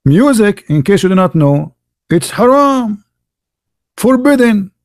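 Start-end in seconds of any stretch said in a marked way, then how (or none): 2.1-4.7 mock cleric. Mocking clerics' bans.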